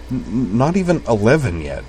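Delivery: halting stuttered start; stammering. A narrator's reading. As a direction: stutter on the N of "not". Kate stammers in story.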